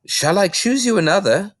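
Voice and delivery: concerned librarian thinking aloud; librarian Mrs Phelps. Acted. Mrs Phelps worrying about Matilda, hesitant librarian voice.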